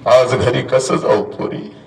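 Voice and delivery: slow, sunk-down, defeated repeat; low broken plea. Retold or imitated. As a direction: let the voice fall away in grief. Mother's lament repeated. (खालच्या आवाजात हताश विनवणी)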